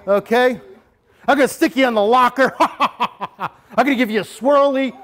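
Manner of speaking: a hint of a tough bully, laughing at the end; big tough bully. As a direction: taunt the kid with mock menace. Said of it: "that type of bully".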